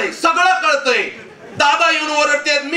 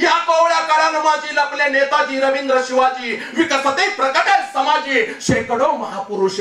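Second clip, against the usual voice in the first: verse recitation; 2 semitones higher than usual. Retold or imitated. Speaker quotes a saint's verse to the crowd, reciting. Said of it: "काय म्हणाले राष्ट्रसंत तुकडोजी महाराज".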